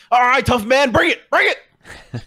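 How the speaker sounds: high, goading tough-guy dare; taunting challenge. Acted. Game master voicing a slapped foe daring the player, taunting. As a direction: egg him on loudly, stretching the end.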